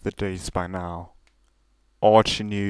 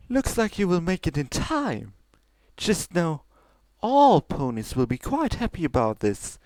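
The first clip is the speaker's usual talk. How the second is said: chuckling; 9 semitones higher than usual. Acted. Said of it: "the white mare chuckled".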